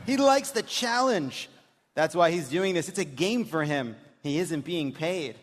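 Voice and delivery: mock-serious reading of a daughter's texts; deadpan daughter reading. Host reads the daughter's texts to a live audience, deadpan. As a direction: read it like a bored teen texting. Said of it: "when we do this dramatic reading".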